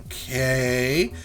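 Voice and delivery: long okay with a questioning rise; hesitant okay. Retold or imitated. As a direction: draw it out, unsure. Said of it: "and I'm like".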